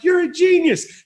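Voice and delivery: high, slow, smug cheer; proud little victory shout; self-praise. Retold or imitated. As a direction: congratulate yourself big. Self-congratulation, pumped.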